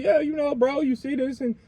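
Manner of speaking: a hint of a cocky gangbanger showing off; mock gangster bragging to cops. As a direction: brag your set to the police like a fool. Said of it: "they saying".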